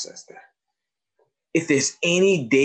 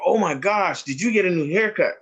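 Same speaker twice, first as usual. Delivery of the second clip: higher-pitched, lightly acted pleasant surprise; friendly delight; 6 semitones higher than usual. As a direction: gush a compliment to a pupil. Voicing friendly compliments to pupils.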